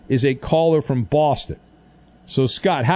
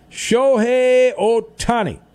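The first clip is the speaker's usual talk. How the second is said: announcer call; 7 semitones higher, 3 dB louder, slower than usual. Acted. Trivia segment name call.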